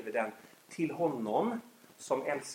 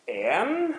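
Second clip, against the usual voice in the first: counting to three; 6 semitones lower, 3 dB louder, much slower than usual. Retold or imitated.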